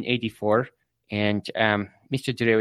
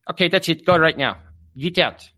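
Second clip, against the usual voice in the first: loud, raised commanding yell; coach barking; 5 semitones higher, 6 dB louder than usual. Acted. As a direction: send the kid away with a shout. Coach ordering student out.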